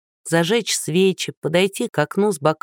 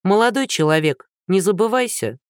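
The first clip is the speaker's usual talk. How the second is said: cold, lofty put-down, a bit higher; haughty cut-off; 3 semitones higher than usual. Acted. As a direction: look down on him and shut him up. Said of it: "высокомерно отрезала Лиза".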